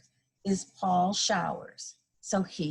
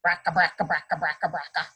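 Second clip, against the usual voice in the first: put-on old car noise; 3 semitones lower, faster than usual. A narrator's reading. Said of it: "Old cars sound like this".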